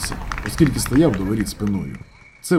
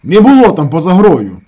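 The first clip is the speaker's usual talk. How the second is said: very loud, high, stressing було; insistent shout; 6 semitones higher, 11 dB louder than usual. A narrator's reading. Shamil insists to his brother, shouting. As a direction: insist at full volume. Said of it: "наполягав Шаміль".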